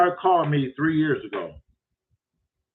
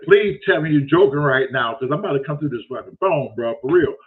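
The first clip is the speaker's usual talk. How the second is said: louder, exasperated retold threat; raised-voice, fed-up comeback; retold angry warning; 2 semitones lower, 4 dB louder than usual. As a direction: warn him you've had enough. Threatens the caller in retold call.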